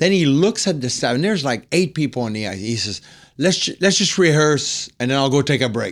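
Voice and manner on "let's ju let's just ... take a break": tough, hard, tough-guy voice. Retelling what a man on the ice told the staff: imitating a tough tone. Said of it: "Like tough".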